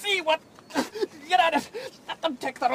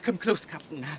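softer, confiding under the breath; whisper; 6 semitones lower, 7 dB quieter than usual. Acted. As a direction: draw him close and speak low. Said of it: "let me whisper to you".

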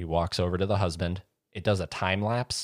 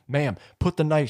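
higher, louder mock order; cop command; 9 semitones higher, 5 dB louder than usual. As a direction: order her sternly, imitating a cop. Cops facing armed wife.

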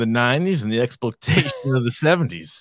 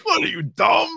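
breaking up mid-quote; laughing quote; 6 semitones higher than usual. Retold or imitated. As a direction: say it while laughing.

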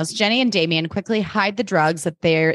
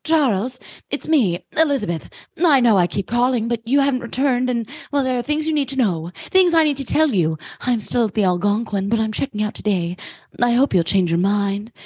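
imitating a pleading caller, pitched high; high-voiced mystery woman on an answering machine; voicemail from Elizabeth; 5 semitones higher than usual. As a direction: leave an urgent, dramatic message in a high voice. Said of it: "B listens to this voicemail".

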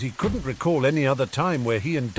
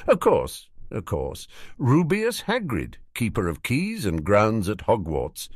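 hearty rustic self-introduction; Hagrid. Acted. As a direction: announce your name and title proudly. Plays Hagrid introducing himself.

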